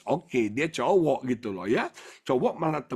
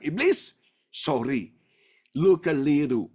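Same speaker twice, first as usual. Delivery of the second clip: defiant rebuke; 3 dB louder than usual. Retold or imitated. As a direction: tell the devil off, ending loud. Rebuking the devil in retold defiance. (bantahan tegas kepada iblis)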